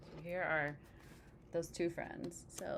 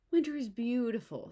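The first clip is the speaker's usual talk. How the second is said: eager; 5 semitones higher, 7 dB louder than usual. Acted. Frog praising winter.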